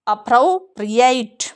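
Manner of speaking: British accent, अप्रोप्रिएट said slowly; British appropriate. Shown as a demonstration. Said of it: "जो Britishers बोलते हैं". (British उच्चारण)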